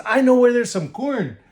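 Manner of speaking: high sweet-talking wolf; sly wolf voice. Acted. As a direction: tempt him with corn. Wolf repeats lure.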